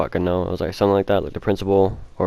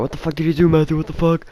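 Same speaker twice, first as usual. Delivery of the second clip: high-pitched imitation of aghast classmates; shocked onlookers; 8 semitones higher than usual. Everyone reacting to the eraser in his eye, shocked. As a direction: pitch it way up, in mock disbelief.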